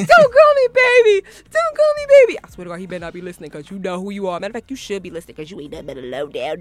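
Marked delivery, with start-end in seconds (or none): 0.1-2.4 high, loud angry repeat; angry retort. Retold or imitated. To the begging ex, she shouts the refusal high and loud. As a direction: throw it back at him, furious. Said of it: "I'm like".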